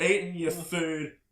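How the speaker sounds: loud, slow, drawn-out ranting in a put-on voice; imitating a screaming man. Homeless man yelling at the diners, slow and loud. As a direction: ham up a raving stranger at the door. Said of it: "was screaming at everyone".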